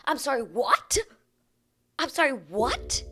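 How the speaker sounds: high, loud disbelief, rising on "what"; incredulous. Real, not acted. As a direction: say it loud and high, as if you can't believe your ears. Mock disbelief at the woman's demand.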